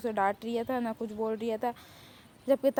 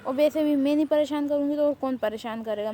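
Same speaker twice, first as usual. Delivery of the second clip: loud, bratty teasing brag; cheeky boast; 3 semitones higher, 5 dB louder than usual. Acted. Girl taunts the boy she keeps bothering, loud and cheeky. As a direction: taunt him proudly, voice pushed up.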